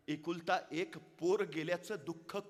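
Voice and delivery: slow, swelling to high and loud; gently then forcefully ask her to stop grieving; king sharing a mother's loss; consoling king. Acted.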